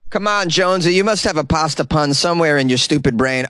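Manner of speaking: lightly acted nagging of yourself; mock self-scolding. Scolds himself in acted self-dialogue.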